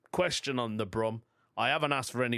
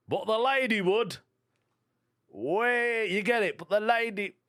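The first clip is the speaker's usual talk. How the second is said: delighted at own pun; 9 semitones higher, 4 dB louder than usual. Real, not acted.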